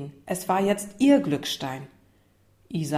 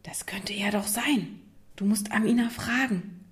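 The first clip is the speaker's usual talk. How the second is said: urgent, hushed aside; whispering; 3 semitones higher, 4 dB quieter than usual. Acted. Lukas urges Isa to ask Amina, whispering. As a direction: whisper it so only your friend hears. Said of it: "Er flüsterte".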